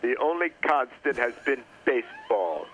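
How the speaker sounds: slow down the bad movie-monologue voice; measured, badly faked James Earl Jones; slowed-down impression. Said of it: "Let me slow down".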